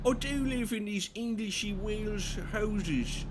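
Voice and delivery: high-pitched, badly faked Welsh sing-song; mock Welsh accent. Playing an Englishman living in Wales, high mock Welsh accent. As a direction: put on a silly high Welsh voice. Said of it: "Can't do a Welsh accent".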